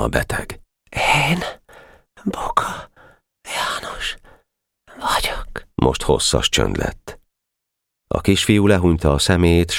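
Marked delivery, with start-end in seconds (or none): 1.3-5.7 faint whisper, word by word with long gaps; tired, uncomprehending. Acted. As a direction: echo it emptily, exhausted and barely voiced. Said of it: "Fáradt hangon, értelmetlenül mondta utána". (fáradt hangon, értelmetlenül, elhalóan)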